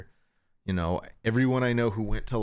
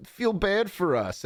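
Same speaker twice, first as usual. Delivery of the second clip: whiny creators mock; 13 semitones higher than usual. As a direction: whine like a self-pitying millionaire. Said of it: "complaining that".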